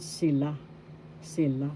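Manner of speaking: sila with the accent on LA; stress on second syllable. Shown as a demonstration. Teacher shows learners the accent, second syllable of sila stressed. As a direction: lean on the final LA in sila. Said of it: "The second syllable has the accent".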